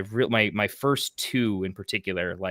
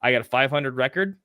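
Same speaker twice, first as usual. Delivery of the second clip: mock excited declaration; 5 dB louder, faster than usual. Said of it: "I'm the first one that says".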